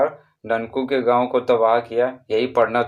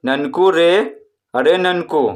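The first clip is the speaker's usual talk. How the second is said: higher call, रे drawn out; 4 semitones higher, 3 dB louder, slower than usual. Acted. Sister calls Nanku from behind, calling out. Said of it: "यानी कोई पुकार रहा है किसी को".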